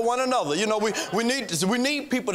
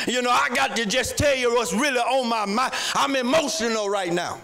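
mock exasperated prayer. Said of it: "calling them and say".

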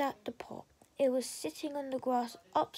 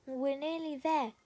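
panting. A narrator's reading. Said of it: "Rachel panted".

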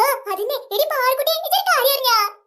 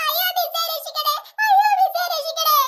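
fake crying plea; 2 semitones higher than usual. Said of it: "നന്നായിട്ട് കരയണട്ടാ".

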